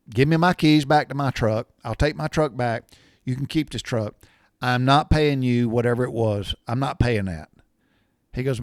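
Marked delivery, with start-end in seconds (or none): 0.1-7.5 mock-indignant father, raised voice; retold angry demand. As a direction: lay down the law like an indignant dad. Acted quarrel of father with salesman.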